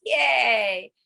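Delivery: bright yay; happy yay; cheer. Shown as a demonstration. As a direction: cheer them on.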